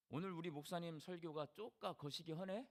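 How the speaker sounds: Jeolla dialect, 쪼까 거시기 허네 with a rising, teasing end. Shown as a demonstration. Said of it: "우리 전라도 사람들이". (전라도 사투리로 쪼까 거시기 허네를 끝을 올리며)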